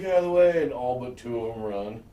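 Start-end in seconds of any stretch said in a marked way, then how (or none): 0.0-0.6 higher, louder imitated warning; mock urgent shout; retold yell. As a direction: call out as if clearing a crowd. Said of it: "And he yells".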